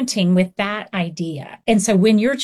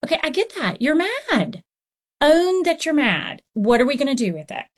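put-on lightly raised, gentle voice for a kid; talking to a child; 5 semitones higher than usual. Counselor calmly telling a hungry child to own his anger, mild and high. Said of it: "But I tell children all the time".

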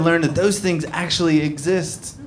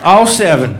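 high, loud mock redneck bragging; proud hick collector; 11 semitones higher, 5 dB louder, slower than usual. Comic playing a fan showing his bucket collection, loud and high. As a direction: show off the buckets like a prize.

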